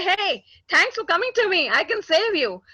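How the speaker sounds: happy doctor. Retold or imitated. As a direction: imitate a doctor glad to see you. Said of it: "he doesn't look at you happily and say".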